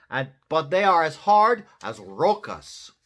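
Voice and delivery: high, loud laid-back dog; cartoon surfer dog; Chihuahua voice. Dogs reply.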